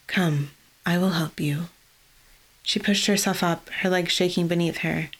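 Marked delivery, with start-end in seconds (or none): 0.1-1.7 whisper. Acted. Helping collapsed girl.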